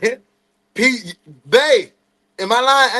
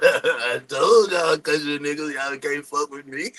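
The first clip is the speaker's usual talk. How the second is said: slow taunt through a laugh, softer; dad gloating, laughing at the boys; 3 semitones lower, 3 dB quieter than usual. Retold or imitated. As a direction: gloat with a chuckle. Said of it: "He like".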